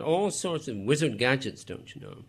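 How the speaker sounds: hammed-up British accent, trailing to a breath; a young man mocking with a fake British accent. Riley mocking Glass in a put-on British accent. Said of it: "mocking the older man".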